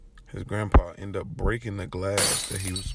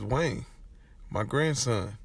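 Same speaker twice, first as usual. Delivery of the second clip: higher voice, building in force; retold anguished rant; 5 semitones higher than usual. Grandpa tells grandson's friend of the killing, anguished rant. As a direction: insist on it, acting out grandpa. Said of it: "he just goes on this weird rant".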